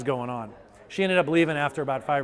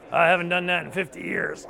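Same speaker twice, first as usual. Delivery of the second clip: amazed patient; 5 semitones higher, 5 dB louder than usual. Retold or imitated. Patient amazed after touching floor.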